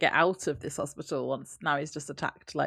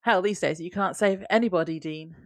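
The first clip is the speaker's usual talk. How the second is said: mean. Retold or imitated. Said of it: "this is where she gets mean".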